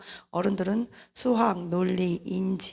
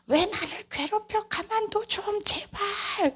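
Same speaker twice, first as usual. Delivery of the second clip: put-on teen yelling back; 13 semitones higher, slower than usual. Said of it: "소리를 질러요".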